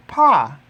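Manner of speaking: Pa said short, loud and firm; loud Swahili model word. Shown as a demonstration. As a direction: model "Pa" crisply and loudly for learners. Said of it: "teacher models Swahili word".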